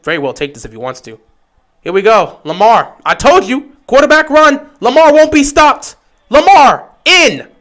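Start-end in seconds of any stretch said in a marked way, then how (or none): 1.8-7.5 building from eager to a loud, high shout as he scores; excited run call. Real, not acted. Fan calling the quarterback run for viewers, building to a triumphant shout. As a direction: call the run, louder with every line.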